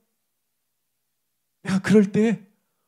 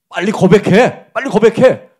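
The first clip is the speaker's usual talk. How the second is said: louder, slow mock demand to confess; demanding jeer; 3 semitones higher, 10 dB louder than usual. Job's friends jeering at him, a louder mock demand. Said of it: "막 약 올렸어요".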